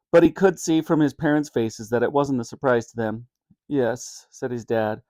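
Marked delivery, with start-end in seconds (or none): 3.7-4.3 uncomfortably. Acted.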